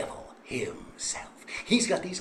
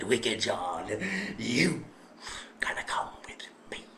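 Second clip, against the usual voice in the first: lower, soft and slow; menacing low summons; 5 semitones lower, 5 dB quieter than usual. Acted. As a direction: call him like doom. Devil summons John menacingly.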